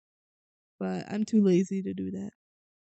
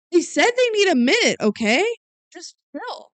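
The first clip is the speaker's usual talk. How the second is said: mock firm order; 8 semitones higher, 5 dB louder than usual. Jake telling librarian back off.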